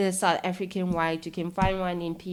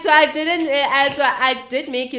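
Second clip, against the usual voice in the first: high, loud, laughing disbelief; retold excitement; 7 semitones higher, 9 dB louder than usual. Caller asking the prankster whether they got in, imitated loud excitement. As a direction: re-enact an excited realisation.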